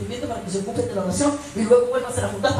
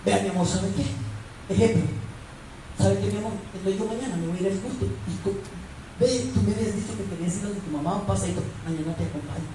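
gentle coaxing; 3 semitones lower, 7 dB quieter, faster than usual. Acted. Models wise wife's gentle bargaining.

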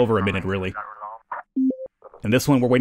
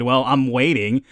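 slow, mildly annoyed imitation; mock annoyed; slower than usual. Player mimics the caller waiting for firefighters, mock annoyed. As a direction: draw it out, mimicking an impatient caller. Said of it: "she sounds very annoyed".

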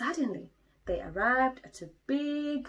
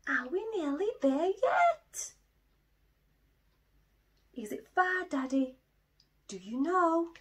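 higher, louder eager questions; impatient cub; 8 semitones higher, 4 dB louder than usual. Acted. Little Bear keeps asking Daddy if they're there, high and eager. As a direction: pester like a small child.

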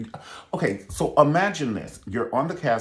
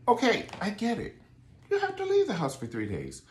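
mock sarcasm; 11 semitones higher, 3 dB quieter than usual. Mock reply to Ralph.

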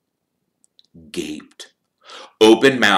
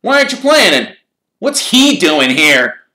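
put-on high, indignant boy's questions; lightly voiced suspicious boy; suspicious Ron; 13 semitones higher, 11 dB louder than usual. A narrator's reading. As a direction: demand it, eyeing the rival.

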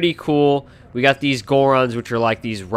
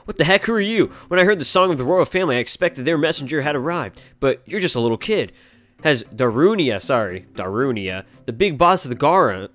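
higher, gruff put-on boss voice; grumpy Goron boss; 3 semitones higher than usual. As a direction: read the cranky chief in a hammed-up voice. Reading Darunia's text in voice.

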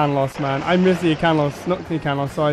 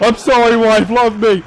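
mock pleading; 4 semitones higher, 6 dB louder than usual.

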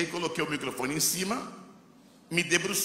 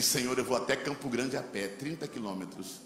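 quiet prayer; 4 semitones lower, 5 dB quieter than usual. Retold or imitated. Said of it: "e eu disse assim".

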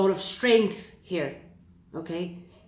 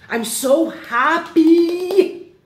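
higher, louder, slow and drawn-out joy; real excitement; 6 semitones higher, 4 dB louder than usual. Real, not acted. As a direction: gush with real delight. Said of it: "I'm getting so excited".

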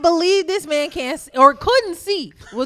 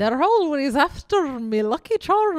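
slow, tentative mock Irish accent; unsure attempt at Irish, drifting off; slower than usual. Shown as a demonstration. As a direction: try a hesitant Irish lilt, slowly. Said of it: "it was definitely different".

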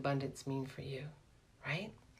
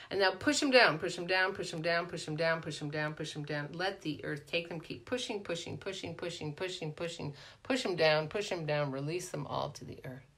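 guided release exercise. Acted. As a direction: coax the group to push down, gentler each time. Leads a hands-down release exercise.

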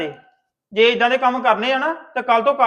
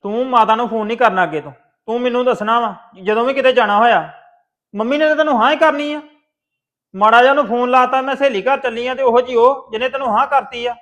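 louder, stern scolding of a sister; angry scolding; 5 dB louder than usual. Acted. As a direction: tell her off, loud and hard. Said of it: "ਇੰਨੇ ਗੁੱਸੇ 'ਚ ਵੇਖਿਆ ਨਹੀਂ".

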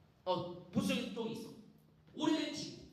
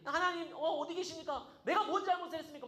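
mildly raised, protesting plea to God; accusing Job; 4 semitones higher than usual. Acted. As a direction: challenge God, a little higher and quicker at the end. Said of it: "막 하나님한테 삿대질을 해". (따져 묻듯 살짝 높인 항의조)

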